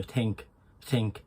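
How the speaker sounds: Irish "think" with a light T for the TH. Shown as a demonstration. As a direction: say "think" as "tink", Irish style. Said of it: "just made it like a T".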